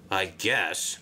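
low, reluctant grumble; grumbled. Acted. Sixteen grumbling to the controller, low and reluctant. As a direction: mutter it unwillingly. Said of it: "grumbled sixteen".

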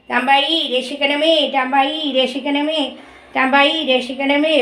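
slow, repeated prayer chant; prayerful plea. Acted. Mother voices a prayer to Thambai for protection, prayerful plea. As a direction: plead slowly for protection, evenly repeated.

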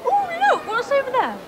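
fake distraction. Dodging question, changing subject.

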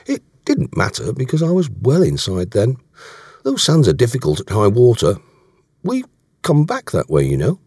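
lightly voiced earnest sailor; a hint of a defensive sailor; Davies, explanatory. Voicing Davies in dialogue.

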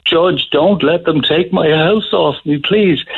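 high, slow, tearful begging retold; retold crying plea. Old man begging the judge for his house, tearful retold plea. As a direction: mimic a broken old man pleading, voice cracking. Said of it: "And then he started crying".

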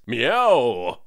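a spoken cat's meow; lightly voiced cat.

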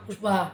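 পুষ্পা with the p softened to b, like pusba; Sylheti pronunciation. Shown as a demonstration. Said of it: "কিরকম নামটা বদলি যায়?".

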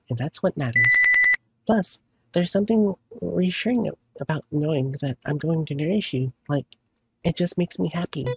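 gentle Button voice. Acted. Voices Button saying goodbye.

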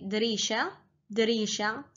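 دريشة said clearly and repeated; Qatari word. Shown as a demonstration. Teacher teaching Qatari word for window. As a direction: model دريشة syllable by syllable. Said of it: "in Qatari dialect".

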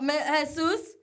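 quick whispered aside; whispering an aside to her co-host. Real, not acted. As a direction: drop to a breathless whisper. Whispered aside after outburst.

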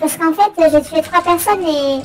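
digitally altered voice; disguised through a voice changer. Pretend. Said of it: "On dirait que t'as une voix modifiée".

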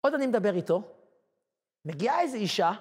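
ordinary talk

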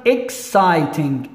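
"exciting" said slowly in separated parts; split into syllables. Shown as a demonstration. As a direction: break "exciting" after "ex". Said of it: "This is two syllables".

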